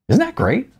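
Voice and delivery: high, delighted gush. Acted. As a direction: gush about him like a fan. Samantha gushing.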